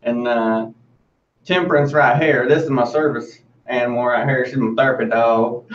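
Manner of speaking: easygoing Southern accent, lightly put on. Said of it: "a Southern accent that you can give to us".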